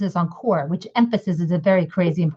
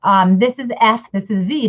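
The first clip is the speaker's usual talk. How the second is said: mock school teacher; 2 semitones higher than usual. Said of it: "in school they teach the similar things".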